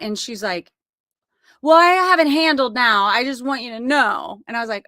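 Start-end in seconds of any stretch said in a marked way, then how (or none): 1.6-4.4 higher and louder, casual; offhand daughter. Retold or imitated. Tori telling mom she has it handled, higher and offhand. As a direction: say it like it is nothing now. Daughter now calm on phone.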